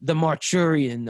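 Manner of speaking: "Marchurian" sounded out slowly, unsure; unsure pronunciation. Real, not acted. Reviewer trying an unknown movie title, "Marchurian" guessed slowly. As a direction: take a slow guess at saying "Marchurian". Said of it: "I do not know how to pronounce this".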